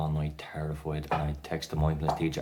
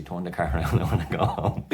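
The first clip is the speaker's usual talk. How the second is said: louder, laughing desperate plea; panicked plea; 5 dB louder than usual. Retold or imitated. Panicking passenger begging the driver to turn around, louder. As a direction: beg to go home, half laughing.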